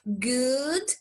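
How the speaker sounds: long oo in "Good", rising; double-o sound. Shown as a demonstration. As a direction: draw out the oo of "Good". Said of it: "Tem dois Os".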